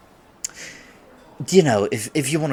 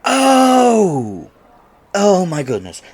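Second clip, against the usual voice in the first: much higher, much louder cry of shock; 11 semitones higher, 12 dB louder, much slower than usual. Acted. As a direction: caught completely off guard, mortified. Realises the misunderstanding, embarrassed.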